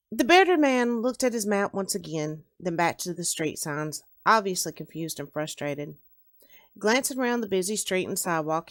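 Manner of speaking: measured read-aloud narrator; story narration. A narrator's reading. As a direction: read the opening of a novel to listeners. Reads own story aloud.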